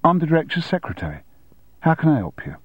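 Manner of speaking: chirpy London Cockney secretary; Cockney accent. Acted. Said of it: "in a breezy Cockney accent".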